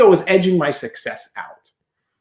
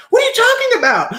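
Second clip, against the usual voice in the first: much higher, laughing incredulous question; high laughing what-are-you-on-about; laughing disbelief; 4 dB louder, faster than usual. Retold or imitated. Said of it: "I'm like".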